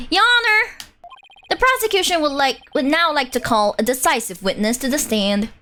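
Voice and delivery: a lightly voiced prosecutor, formal and confident. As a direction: address the judge like a court prosecutor. Reads the prosecutor in a courtroom game.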